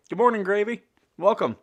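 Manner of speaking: bright high hello; cheerful greeting. Real, not acted. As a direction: greet a friend warmly, upbeat. Greeting a viewer by name.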